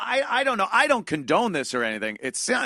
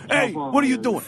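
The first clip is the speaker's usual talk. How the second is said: imitating confronting guy; 6 semitones higher than usual. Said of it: "he talks like this when he finally gets the guy".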